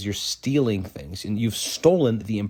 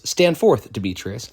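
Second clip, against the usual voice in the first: commanding call; 4 dB louder than usual. Acted. Angry father summoning a suitor, a loud command. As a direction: call Demetrius forward with authority.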